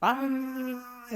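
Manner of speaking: thin high ghostly wail; ghostly scream. Retold or imitated. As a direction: imitate the crowd of spirits screaming. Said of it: "कानों में चीख रहे हो".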